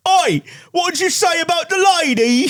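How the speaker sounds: high shouted Cockney "Oi"; Cockney gangster shout. Retold or imitated. Host mocks Matt Smith's gangster line in a shouted Cockney. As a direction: bark it like an East End heavy. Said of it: "Cockney, like, gangster type guy".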